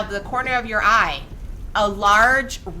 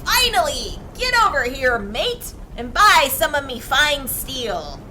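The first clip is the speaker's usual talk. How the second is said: gruff blacksmith; 4 semitones higher than usual. Acted. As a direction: hail the customer like a rough smith. Gruff blacksmith woman calls out.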